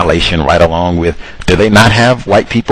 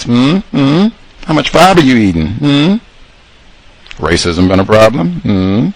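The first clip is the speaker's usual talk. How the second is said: a hint of a friendly nurse, higher; imagined male nurse; 5 semitones higher than usual. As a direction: quiz the patient like a caring nurse.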